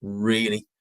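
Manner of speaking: slow, drawn-out scepticism; mock doubtful reaction; cringing disbelief. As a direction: stretch the word out, unconvinced. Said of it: "you're just like".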